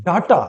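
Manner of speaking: ডাটা with open "a" in both syllables; mispronounced data. Shown as a demonstration. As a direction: say ডাটা as "DAA-taa". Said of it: "কিন্তু ডাটা নয়". (ডাটা-র ভুল উচ্চারণ, "ডা-টা")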